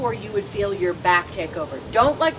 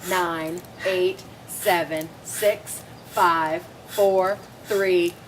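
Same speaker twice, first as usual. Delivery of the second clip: counting workout reps; much slower than usual. Acted. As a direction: push the count with energy. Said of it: "I love the fact that you're counting".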